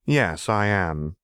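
slow, light and unbothered; lightly. Acted. Renata lightly answers Seraphine's threat. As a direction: say it with easy amusement. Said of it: "she said lightly".

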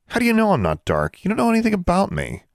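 bristling, hurt and offended; indignant. Acted. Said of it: "Then she became indignant".

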